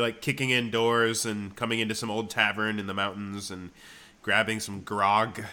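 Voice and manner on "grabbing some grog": slow laughing barbarian. Pretend. Conan tavern fantasy.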